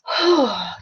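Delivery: long, breathy sigh of comfort; sigh of relief. Acted. Speaker showing how food makes you feel better, relieved sigh. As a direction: let out a big relieved sigh.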